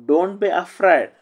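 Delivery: stretched out slowly; a teacher modelling the phrase slowly for the class; slow model reading. Shown as a demonstration. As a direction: say it slowly for learners. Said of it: "teacher models phrase slowly".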